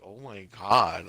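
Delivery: slow, scandalized aside; mock pearl-clutching. Podcaster telling co-host how awkward the scene felt, mock pearl-clutching. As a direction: draw it out, appalled. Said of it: "I was, like, clutching my pearls".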